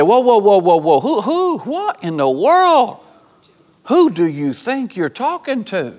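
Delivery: a hint of a stern parent cutting in; scolding parent. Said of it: "they had to stop you mid-sentence and say".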